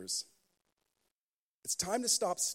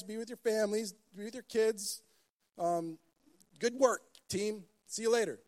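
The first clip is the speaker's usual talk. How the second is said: casual mock Jesus; 5 semitones higher, 4 dB louder than usual. Mock Jesus dismissing disciples.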